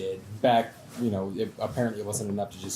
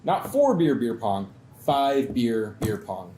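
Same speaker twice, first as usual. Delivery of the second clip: building louder cocky dare; hammed-up drunk friend bragging; drunk bravado; 2 semitones higher, 6 dB louder than usual. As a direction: escalate each number, slowing on five. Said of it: "he's like".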